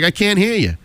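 mock a friend who can't hear; friend's complaint. Friend picking him up can't hear him, imitated complaint. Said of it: "You're whispering to me".

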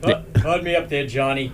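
hollow, far-off mic sound; like talking from inside a tunnel. Real, not acted. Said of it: "How come you sound like you're in a tunnel?".

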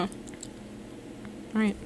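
whispered resigned all right. Real, not acted. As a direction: give in with a whisper.

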